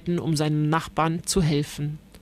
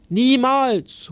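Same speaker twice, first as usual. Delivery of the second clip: high, raised refusal; defiant call; 5 semitones higher, 4 dB louder than usual. A narrator's reading. Ritter Kuno shouts his refusal back at Blaubart, defiant raised voice. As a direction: fling the refusal back at him. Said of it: "ruft Ritter Kuno".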